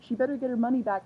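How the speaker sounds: indignant fan demanding a refund; angry demand. Real, not acted. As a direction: insist on it, fuming. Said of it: "I'm so annoyed".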